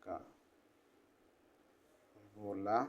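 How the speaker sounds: quiet, word-by-word dictation with long pauses. Acted.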